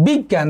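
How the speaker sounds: বিজ্ঞান said as big-gan, the second g nasalised; double g, nasalised. Shown as a demonstration. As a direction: hold the g in বিজ্ঞান, then open into a nasal vowel. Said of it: "তাহলে গ, পরে আবার গ".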